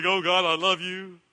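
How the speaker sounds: slow, gushing churchgoer voice; drawn-out praise, a touch too sweet; lightly hammed-up piety; mock churchy gush. Mocks easy praise in church.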